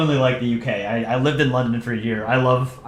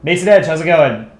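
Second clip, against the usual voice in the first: louder, put-on New York mobster accent; mafia New York accent; 3 semitones higher, 5 dB louder than usual. Shown as a demonstration. Streamer hamming a greeting, mafia New York accent. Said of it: "Sounds more mafia in New York".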